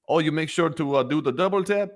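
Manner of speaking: a hint of a teasing commander; mock commander. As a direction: tease like a commander. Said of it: "the commander said".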